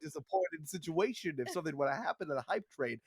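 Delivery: low mock mobster shakedown; smiling menacing loan shark. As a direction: lean in like a friendly extortionist. Mock mob shakedown over hype train.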